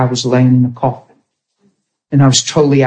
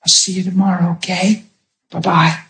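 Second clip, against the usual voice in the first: lightly sweet, reassuring bedtime goodbye; smiling good night; 3 semitones higher than usual. Retold or imitated. Husband halfway up the steps to wife, smiling good night. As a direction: say it with a gentle smile, hiding the pain. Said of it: "I smiled and I said".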